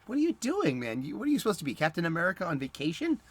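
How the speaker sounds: high teasing voice of a buddy calling him out; mocking friend voice. Friend teasing a cosplayer at the con, high mock voice. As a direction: pitch way up and rib him like an old pal. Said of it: "and he's like".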